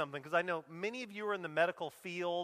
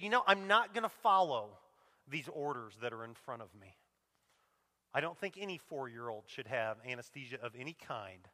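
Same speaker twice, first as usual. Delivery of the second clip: cold refusal; 7 semitones lower than usual. Retold or imitated. Quoting the stern nurse's refusal.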